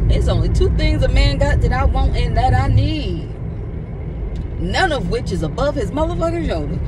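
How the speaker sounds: loud exasperated outburst; frustrated rant. Real, not acted. Venting about men to viewers, loudly frustrated. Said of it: "pardon my frustration".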